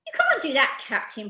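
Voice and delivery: high, indignant objection falling away; protesting. Acted. Percy objecting to the captain, high protest. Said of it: "protested Percy".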